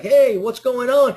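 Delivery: a bewildered hello as everyone claps; puzzled greeting. Retold or imitated. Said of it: "You're like".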